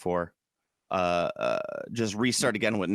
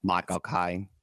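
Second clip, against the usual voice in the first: Cockney vowels, pitched lower; Michael Caine; 4 semitones lower, slower than usual. Shown as a demonstration. Host showing how it's done, Cockney accent. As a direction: mimic a London accent on the name. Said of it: "how you do Michael Caine".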